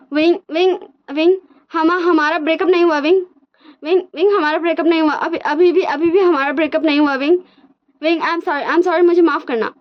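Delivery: high, pleading, half-shouted calls; mock desperate yelling. Wang ji calling after Wing across college, high mock desperate cry. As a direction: beg him across the campus. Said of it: "वो चिल्ला चिल्ला के बोला था".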